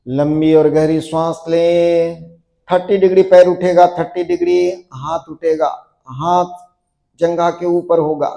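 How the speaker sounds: steady, sustained instructor's count-through voice; yoga drill cueing. Acted. Yoga teacher guiding a class into a stiff pose, steady drill cueing. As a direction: keep the class holding the pose with insistent, even commands.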